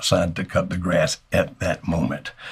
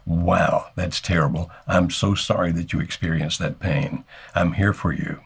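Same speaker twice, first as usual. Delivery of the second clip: sympathetic demo. Shown as a demonstration. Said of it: "get on her side of the table".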